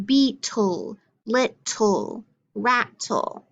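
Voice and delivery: each word in two clear beats, BEE-tle, LIT-tle, RAT-tle; syllable-by-syllable demo. Shown as a demonstration. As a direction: stretch the final -tle in beetle, little, rattle into a full "tool". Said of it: "So if I say".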